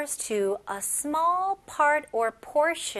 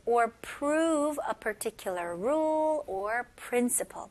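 whisper. Acted. Whispered part of definition.

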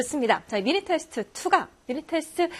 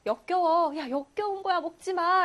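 mother's scolding yell; 6 semitones higher than usual. Acted. Mother warns child off garbage, mock scolding yell. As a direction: act out a disgusted mother's warning. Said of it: "엄마가 소리를 지르는 거예요".

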